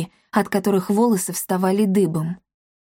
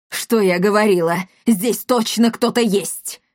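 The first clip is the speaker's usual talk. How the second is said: spiteful voice. Acted. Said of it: "раздался злобный голос".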